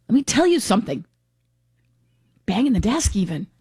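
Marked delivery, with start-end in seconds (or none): 0.1-1.0 Peter Alviti impression. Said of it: "Governor goes all Peter Alviti".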